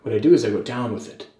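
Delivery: mock-serious how-to narration with deliberate pauses; Jack Malacco impression. Vlogger imitates a beard YouTuber explaining combing, lightly mock-serious impression. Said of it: "I'm trying to be more serious, actually, for this impression".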